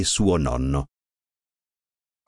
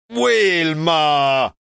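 louder exasperated shout of her name; siblings crying out; 6 semitones higher, 3 dB louder than usual. A narrator's reading. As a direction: cry out her name, fed up. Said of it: "cried i suoi fratelli".

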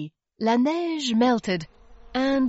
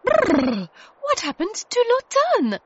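startled high cry, louder; cried out; 12 semitones higher, 5 dB louder than usual. Acted. Tilly waking suddenly in the cold, crying out. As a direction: wake up cold and shocked. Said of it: "cried Tilly".

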